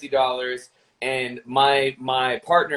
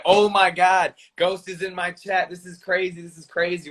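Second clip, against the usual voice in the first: freaking out; 5 semitones higher than usual. Retold or imitated. Streamer retelling a kid meeting his hero, mock freak-out. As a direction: imitate an excited kid losing it, lightly. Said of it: "Batsoy freaked out".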